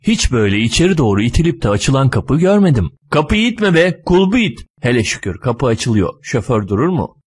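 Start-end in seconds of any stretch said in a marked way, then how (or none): 3.1-4.6 high-pitched, impatient correction; exasperated scolding. Acted. Driver tells passenger to push the handle, exasperated scolding.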